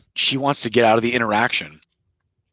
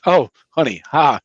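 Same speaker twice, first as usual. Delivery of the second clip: laughing it off. Pretend. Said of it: "I like to laugh and go like".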